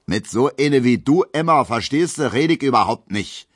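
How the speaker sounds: loud scornful sneer; contemptuous. Acted. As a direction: spit it out with scorn. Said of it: "meint Gustav Schmelow verächtlich".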